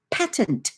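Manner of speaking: PATENT with a crisp final T; shown pronunciation. Retold or imitated. Mum shows son the other word, PATENT ending in clear T. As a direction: say PATENT as "PAT-nt", closing on the T. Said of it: "I would say patent".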